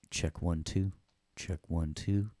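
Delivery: radio check. Pretend. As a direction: test the mic like a soundman. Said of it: "That is me doing that".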